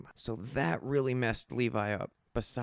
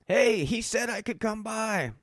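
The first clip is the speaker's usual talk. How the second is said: hasty excuse; 9 semitones higher, 3 dB louder than usual. Retold or imitated. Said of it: "And I'm like".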